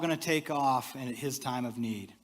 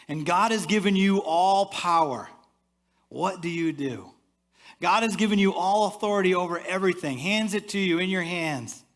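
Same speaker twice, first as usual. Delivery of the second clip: rising emphasis; 4 semitones higher, 5 dB louder than usual. Real, not acted. Pastor builds to a climax.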